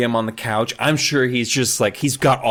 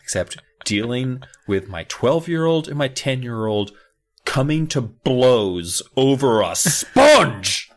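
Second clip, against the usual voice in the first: weary mom; 4 semitones lower than usual. Retold or imitated. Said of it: "the mom who's just like".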